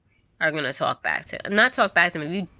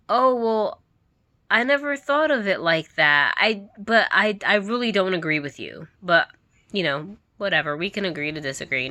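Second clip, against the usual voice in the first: mock reasonable parent. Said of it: "They will never say".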